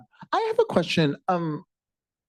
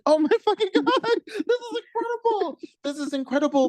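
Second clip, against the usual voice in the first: high, laughing amazement; delighted shock, laughing through it; amazed. Retold or imitated. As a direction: gush in disbelief, pitch way up. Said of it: "I was like".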